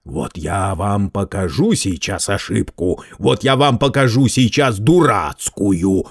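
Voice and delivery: slow, menacing threat; threatening. Acted. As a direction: lean in and threaten slowly. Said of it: "угрожающе заговорил Герат".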